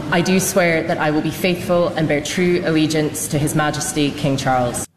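ordinary talk, nothing marked

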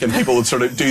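normal talking voice

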